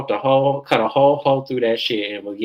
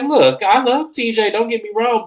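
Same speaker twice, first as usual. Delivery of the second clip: imitating Stacy; 8 semitones higher, 5 dB louder than usual. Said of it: "she's like".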